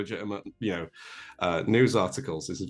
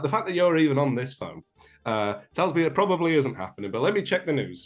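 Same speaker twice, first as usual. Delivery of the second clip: sensible mum in a put-on northern accent, pitched up; northern English accent; 4 semitones higher, 3 dB louder than usual. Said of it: "northern accent on".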